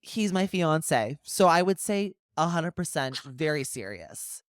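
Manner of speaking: slow, emphatic retelling; measured, pointed insistence; firm rebuff. Retold or imitated. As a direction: spell it out slowly to shut him down.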